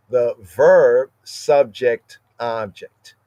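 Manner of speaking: The verb hit loud, then subject, object fading; verb stressed first. Shown as a demonstration. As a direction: put the weight on The verb. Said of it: "the usual order is the verb".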